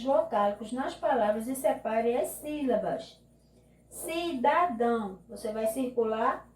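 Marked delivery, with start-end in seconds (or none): 3.9-5.2 "Cidadão" said slowly as one word; palavra inteira. Shown as a demonstration. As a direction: say "Cidadão" slowly, without long breaks. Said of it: "e separar". ("Cidadão" devagar, palavra inteira)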